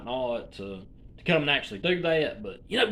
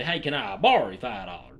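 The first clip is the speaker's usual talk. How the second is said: lower, casual "can I borrow you" like a local; Alabama phrasing; 5 semitones lower than usual. Shown as a demonstration. Explaining Alabama speech, quoting the local way casually. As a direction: toss it off like an Alabama redneck. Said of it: "they'll just say".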